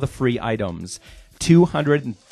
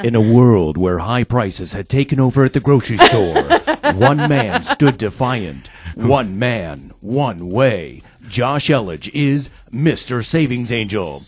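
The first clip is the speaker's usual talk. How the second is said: movie trailer voice; 4 dB louder than usual. Acted. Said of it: "the movie trailer guy".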